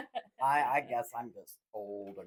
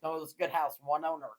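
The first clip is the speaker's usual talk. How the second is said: car salesman; 3 dB louder, much faster than usual. Pretend. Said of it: "We went full on car salesman mode".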